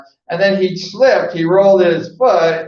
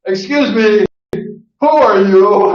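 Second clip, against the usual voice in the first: startled demand; 5 semitones higher, 5 dB louder than usual. Retold or imitated. Sonny confronting an intruding kid.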